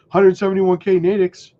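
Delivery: hiccuping mid-sentence; hiccups. Real, not acted. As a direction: talk through the hiccups. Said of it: "I'm, like, hiccuping between, between these".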